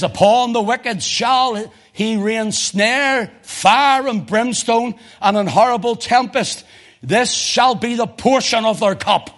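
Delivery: slow, high, weighty reading of the psalm; slow scripture reading. Shown as a demonstration. Preacher reading Psalm eleven to the church, slowly. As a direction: lay each word down slowly. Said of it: "Listen to this".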